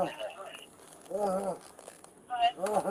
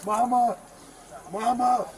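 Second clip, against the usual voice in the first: desperate cries of Mama, louder, in real distress; calling for mother; 2 semitones higher, 3 dB louder than usual. Real, not acted. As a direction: call out for your mother in pain and fear. Man pinned, calling for his mother.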